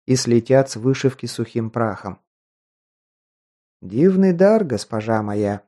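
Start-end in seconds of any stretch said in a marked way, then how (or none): 3.8-5.6 lightly voiced old man, rustling; a hint of a dry rustling elder. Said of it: "прошелестел палой листвой старческий голос".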